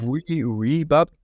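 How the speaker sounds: put-on French words in a thick Black Country accent. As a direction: say oui oui in broad Black Country. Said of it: "thick Black Country accent".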